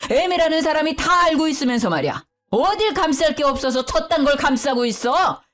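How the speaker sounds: lightly voiced angry patriarch; angry father-in-law. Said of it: "소리를 빽 지르더군요".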